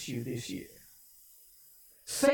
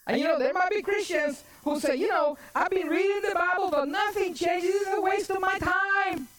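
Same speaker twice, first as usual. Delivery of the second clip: high-pitched sermon complaint; impassioned preaching; 11 semitones higher than usual. Acted. Preacher acts out a fed-up Bible reader, impassioned preaching. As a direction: preach the doubter's gripe high and quick.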